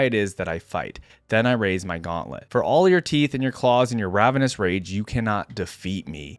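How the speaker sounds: deliberate, solemn narration with defiant peaks; dramatic story reading. A narrator's reading. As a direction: read a hunted warrior's account with gravity. Reads first-person story aloud.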